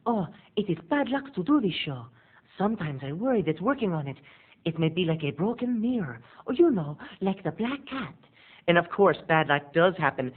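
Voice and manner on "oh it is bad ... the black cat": superstitious actress. Retold or imitated. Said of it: "Lady Macbeth imagery".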